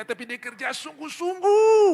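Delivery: high, loud and slow, hammering it home; emphatic preaching. Real, not acted. Preacher urging the congregation to work hard, loud and slow. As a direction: preach it with full force.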